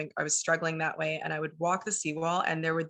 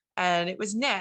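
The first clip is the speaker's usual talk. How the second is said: plain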